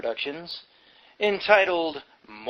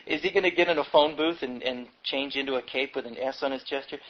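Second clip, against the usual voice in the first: laughing aside; 2 semitones lower, 3 dB quieter, faster than usual. Real, not acted. Mocking aside on Superman praise.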